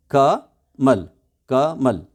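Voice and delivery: कमल split as क, pause, मल; syllable by syllable. Shown as a demonstration. Teacher showing the two parts of the name, syllable by syllable. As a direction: leave a clear gap between क and मल. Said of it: "syllable हैं दो".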